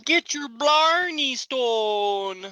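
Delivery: very high, slow hammed-up Irish accent. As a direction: ham up a bad Irish brogue. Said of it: "That sounded like Canadian".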